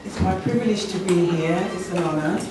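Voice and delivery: hoarse from a sore throat. Real, not acted. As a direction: speak through a sore throat. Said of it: "I've got a really sore throat, as you can hear".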